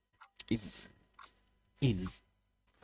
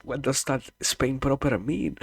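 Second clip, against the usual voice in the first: baffled question; 7 semitones higher, 5 dB louder than usual. Real, not acted.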